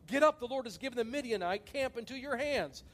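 loud, high battle call to the camp; rallying call. Acted. Gideon calling out to camp.

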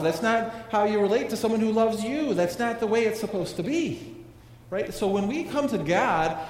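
fervent preaching. Real, not acted. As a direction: drive the point home, forceful. Preaching with rising intensity.

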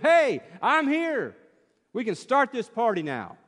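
strut into the room like you own it; mock swagger. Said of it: "come strutting into church as if".

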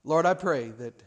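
measured pastoral prayer with pauses; earnest prayer. Real, not acted. Pastor praying over his congregation, earnest and measured.

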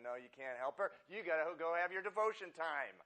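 lightly voicing the devil, teasing; preacher mock-voicing Satan's temptation, playful. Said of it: "Satan was going".

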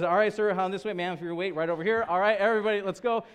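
high, loud attendant herding riders; imitated boarding call. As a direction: mimic a ride attendant calling everyone aboard. Cast member directing riders aboard.

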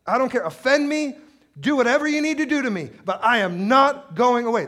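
high, loud, unyielding plea; impassioned, insistent cry to God; gritty defiance. Acted. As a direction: dig in and shout it stubbornly. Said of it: "That's the kind of grit that she had".

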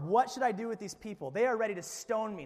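loud, urgent appeal read as Moses; crying out. A narrator's reading. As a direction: cry out for help in exasperation. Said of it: "Then Moses cried out to the Lord".

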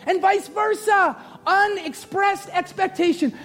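high, emphatic preaching. Real, not acted. Preacher warning the church about unexpressed expectations, full-force preaching. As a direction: proclaim it high, stretching the key words.

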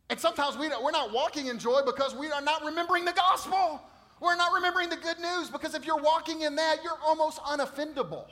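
loud, high-pitched preaching from the pulpit; preaching at full force. Acted. Pastor preaching to his church, loud and high. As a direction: preach it out to the whole room.

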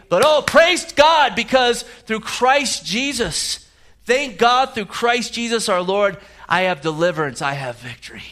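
triumphant shout of praise. Shown as a demonstration. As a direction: proclaim the victory, building then settling. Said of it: "it's a voice of triumph".

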